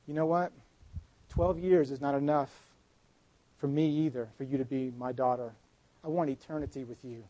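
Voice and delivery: soft, hushed promise to a daughter; tender reassurance. Acted. Jesus tenderly promising the healed woman, soft and warm. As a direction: speak it gently like a loving father.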